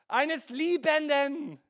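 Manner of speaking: Liebenden drawn out slowly, weight on every syllable; slow emphasis. Acted. Preacher stressing God's love to congregation, slow and weighty. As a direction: let Liebenden sink in slowly. Preacher hammers home key word.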